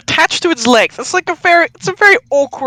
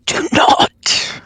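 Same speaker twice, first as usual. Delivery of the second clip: low gravel vigilante growl. Acted. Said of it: "a low, growly, gravelly voice".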